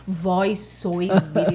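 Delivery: slow, hammed-up archaic preacher voice through a laugh; mock solemn Jesus. Teller parodies how Jesus doesn't talk, slow and solemn. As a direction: parody stiff biblical speech, slowly. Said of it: "Ele não fala desse jeito".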